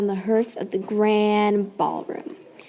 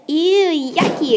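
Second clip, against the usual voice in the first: grinning exclaim; 6 semitones higher than usual. Acted. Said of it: "exclaimed Cinder Hazel, grinning".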